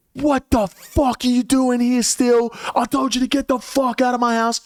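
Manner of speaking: high-pitched mock yell; a hammed-up high squawk of outrage; exaggerated high voice, telling her to get out; retold yelling. Retold confronting her again.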